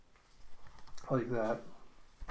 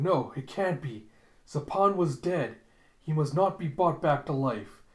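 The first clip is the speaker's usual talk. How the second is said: louder, mildly dramatic denial; alarmed protest; 3 semitones higher, 4 dB louder than usual. Retold or imitated. Ito refusing to accept Zapan's return, acted alarm. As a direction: protest with acted dismay, rising in force.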